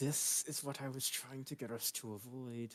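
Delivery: speaking through clenched teeth. A game player speaks in character to the group, through gritted teeth. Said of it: "says through gritted teeth".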